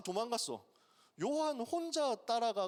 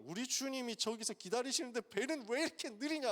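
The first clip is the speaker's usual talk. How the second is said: impatient frustration; 6 semitones higher than usual. Retold or imitated. Peter impatient to reach the Lord, higher exasperated grumble. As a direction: fume that the boat won't hurry. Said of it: "분통이 터져가지고".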